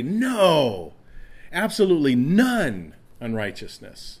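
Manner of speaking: No said high and loud, punched; a loud, forceful No; emphatic no. Shown as a demonstration. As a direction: shout the no with full emphasis. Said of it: "how would you say it in a really emphatic way".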